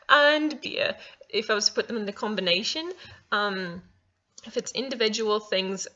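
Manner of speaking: put-on British accent at a chatty pitch. Vlogger chatting about coffee and baking in a put-on British accent. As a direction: keep up an attempted British accent while chatting. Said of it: "I almost whipped out the British again".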